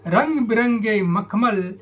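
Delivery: measured descriptive verse reading; poem recitation. Acted. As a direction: recite it line by line, pausing after each image.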